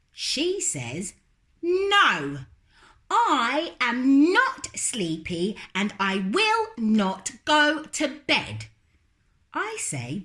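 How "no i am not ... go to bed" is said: put-on high, stubborn little-girl voice, louder; little girl refusing. Lola refusing to go to bed, high and stubborn. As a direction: dig in like a stubborn small child.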